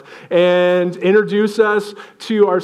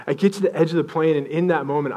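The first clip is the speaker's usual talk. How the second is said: normal talking voice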